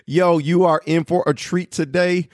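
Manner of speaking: hyped welcome. Real, not acted. Host presenting the one and only guest, hyped.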